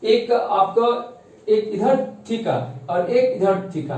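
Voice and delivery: slow, deliberate restatement; slow down so students follow each word; careful slow teaching repeat. Shown as a demonstration. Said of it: "एक minute, एक minute".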